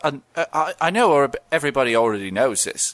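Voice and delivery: a hint of a Cockney gecko, slowing down; playing the insurance gecko, only lightly put on; lightly voiced Geico Gecko. Answering a mock interview as the Geico Gecko, lightly voiced. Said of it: "Geico Gecko".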